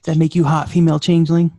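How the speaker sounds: lightly voiced seducer. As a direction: tease her with a pickup line. Plays Odo sweet-talking the changeling.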